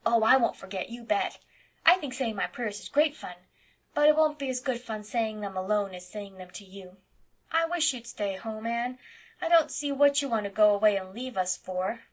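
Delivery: put-on little boy voice. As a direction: chatter like an eight-year-old boy. Narrator voices Davy.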